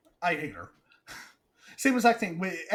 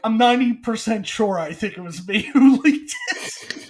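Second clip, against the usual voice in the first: laughing; 3 semitones higher, 6 dB louder than usual. Retold or imitated. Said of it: "Reynolds was like".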